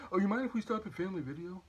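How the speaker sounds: imitating sister in a quick Canadian accent; mock Canadian accent, asking casually. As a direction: do a light, hurried Canadian accent. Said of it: "why you have a Canadian accent".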